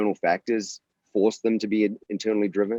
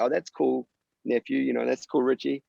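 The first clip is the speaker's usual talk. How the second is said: breezy dismissive uncle, higher pitch; mock offhand brush-off; 5 semitones higher than usual. What the uncle didn't say, offhand mock praise. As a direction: toss off "that's cool" lightly, not caring. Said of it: "It's not just like".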